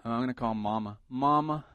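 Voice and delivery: mock country accent calling on Mama. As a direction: put on a light country twang. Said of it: "it has to be a country accent".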